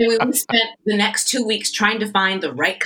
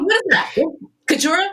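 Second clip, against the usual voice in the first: high, raised-voice questioning; mock demanding query; 11 semitones higher, 5 dB louder, faster than usual. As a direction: imitate someone calling across the room for answers. Imitating director demanding an explanation.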